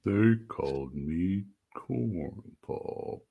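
very slow, soft drawn-out delivery; slow, softened mock-legendary nickname; mock-dramatic. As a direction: stretch every word out, hushed and mock-grave. Mock-solemn echo of the nickname.

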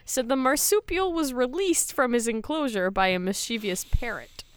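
lively read-aloud news report. Acted. Host reading co-hosts a kangaroo story, news read. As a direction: read it out like a newsreader.

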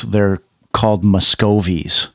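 normal talking voice

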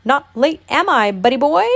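high, loud, bouncy hoot; hooting Tigger. A narrator's reading. Tigger bounces onto Pooh, hooting loudly. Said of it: "hooted Tigger".

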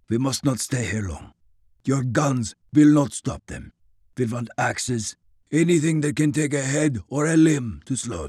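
put-on stern, clipped orders with Russian accent; commanding Russian officer. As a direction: lay down orders, no debate. Grigori commands the group.

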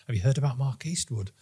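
hushed tone. Retold or imitated. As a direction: drop your voice as if breaking grave news. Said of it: "in that kind of hushed tone where you drop your voice".

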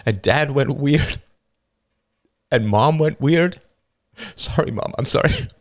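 put-on a young boy fighting back sobs, laughing bitterly; tearful boy. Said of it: "The younger boy burst into tears".

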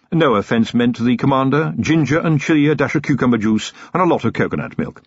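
lightly voiced wry valet; Willikins, dry butler. Willikins continues.

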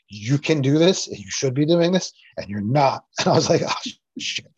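really choking up, voice wavering; overcome, words catching with emotion; tearful. Real, not acted. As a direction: fight tears while recounting the inner voice. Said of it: "tearful 'cause it's that profound".

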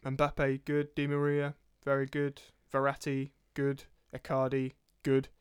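lightly put-on German accent, clipped phrases; mock German accent. Co-host rating players in a mock German accent. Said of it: "That was my German accent".

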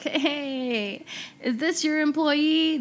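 accusatory; mock confrontation. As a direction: confront the employer. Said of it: "be like".

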